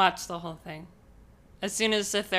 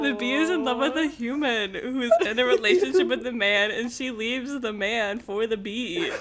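laughing while explaining; 5 semitones higher, 4 dB louder than usual. Real, not acted.

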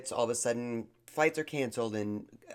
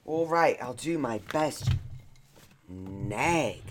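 put-on British attempt; British accent; slower than usual. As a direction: try on a British accent, reluctantly obliging. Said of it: "speaking in your British accent".

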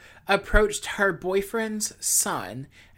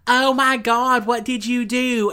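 shocked; 6 semitones higher, 8 dB louder than usual. Retold or imitated. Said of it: "she's like".

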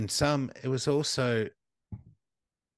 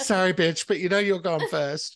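laughing; 9 semitones higher, 8 dB louder than usual. Pretend. Laughing betrayal.

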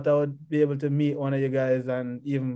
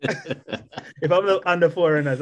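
laughing, slower, through a chuckle; laughing repeat; slower than usual. Real, not acted. Athlete laughing to the host as he repeats himself. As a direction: giggle the words out as you repeat them.

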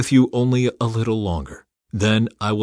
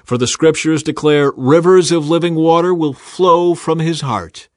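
louder, higher call to the crowd; shouting; 6 semitones higher, 7 dB louder than usual. Acted. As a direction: lift it over the festival crowd. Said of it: "Jesus stood and shouted to the crowds".

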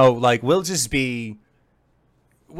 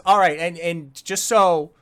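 goblin foreman; 4 semitones higher, 4 dB louder than usual. Acted. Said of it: "the foreman once again just says".

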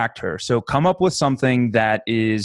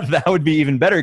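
laughing; 5 semitones higher, faster than usual. Real, not acted. Laughing at friend's cash joke.

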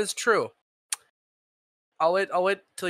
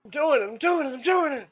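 higher, eager shout; excited shout; 6 semitones higher, faster than usual. Real, not acted. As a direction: urge the dice on. Excited dice roll.

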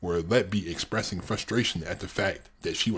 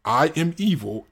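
all caps; 7 semitones higher, 4 dB louder than usual. Shown as a demonstration. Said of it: "in all caps".

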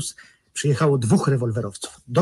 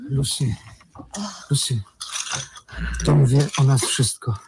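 urgent unvoiced whisper; telling Lucy the husband knows, in a whisper; stunned whisper. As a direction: breathe out the bad news. Tells lover they are found out.

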